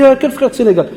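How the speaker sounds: high-pitched indignant question; mock outrage. Teacher retelling the pupil's offended question. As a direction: replay the pupil's offended cry. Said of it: "Il m'a dit".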